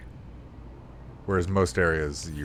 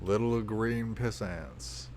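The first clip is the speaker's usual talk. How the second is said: slow echo; 7 dB quieter, slower than usual. Retold or imitated. Echoes the game character's drawn-out line.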